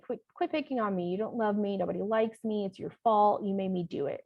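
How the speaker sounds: put-on a touch of a whiny, sulky kid; whiny child voice. Shown as a demonstration. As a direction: lightly act out a blaming child. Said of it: "really hard to say these without getting into the voice".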